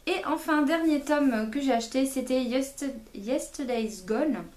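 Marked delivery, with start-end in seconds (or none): 2.4-4.4 English title in a French-tinged English accent. Real, not acted. Vlogger showing off a book title, playful English accent. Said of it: "avec mon super accent anglais".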